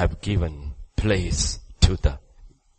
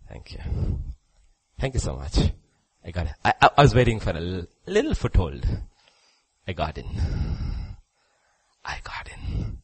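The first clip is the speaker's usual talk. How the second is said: devil's voice; 2 semitones lower, faster than usual. Acted. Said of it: "He said".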